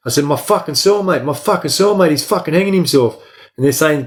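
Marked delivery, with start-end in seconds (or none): 0.2-3.2 pitched-up, urgent yelling at the guards; desperate cry that cellmate is hanging; retold frantic yell. Inmate yelling to guards through cell door, frantic and high.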